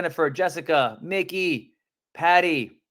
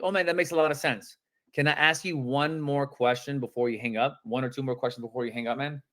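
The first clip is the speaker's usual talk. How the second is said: excited. Shown as a demonstration. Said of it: "you have to sound excited here".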